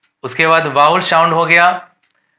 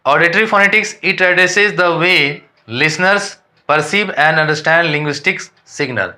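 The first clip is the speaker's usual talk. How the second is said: reading English textbook lines slowly and deliberately; careful dictation pace for students; slow read-aloud definition; 2 semitones higher, much slower than usual. Shown as a demonstration. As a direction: dictate it word by word to the class.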